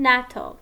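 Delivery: nato run together as a single word, not spelled; said as one word. Shown as a demonstration. Teacher gives students an acronym read as a word, said as one word. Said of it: "pronounced as one word".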